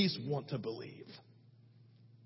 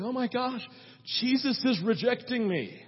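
mock dismay at being rejected; Mary, aghast mother; 3 semitones higher than usual. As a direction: imitate an overreacting mother, pitched up. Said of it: "what Mary could have done".

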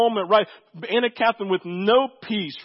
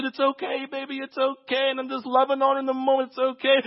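soothing; 6 semitones higher, faster than usual. Retold or imitated. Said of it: "I just grab her and said".

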